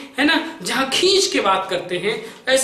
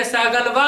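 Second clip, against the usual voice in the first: "सहगलवा" ending on a long sustained वा; drawn-out call; 2 semitones lower than usual. Shown as a demonstration. Teacher showing the added line after वा, drawn-out call. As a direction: pull out the last syllable of "सहगलवा" to three beats. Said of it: "अब देखिए कितना खींच रहा हूं मैं".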